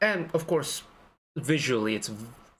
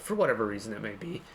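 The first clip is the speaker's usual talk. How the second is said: voice crack; 4 semitones lower, 3 dB quieter, faster than usual. Real, not acted. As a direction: voice cracks mid-phrase. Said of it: "voice crack, hello".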